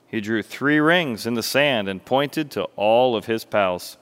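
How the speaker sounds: animated storyteller, projected and expressive; story narration. A narrator's reading. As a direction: tell it like a lively children's tale. Narrates a parable.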